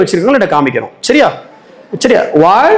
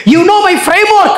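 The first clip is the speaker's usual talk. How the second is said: slow drawn-out quote; 9 semitones higher, much slower than usual. Shown as a demonstration. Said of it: "slow scripture quote".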